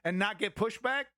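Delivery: angry scolding. Real, not acted. Streamer snapping back at a rude chatter, angry and fast. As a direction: put the troll in his place, rapid and hot.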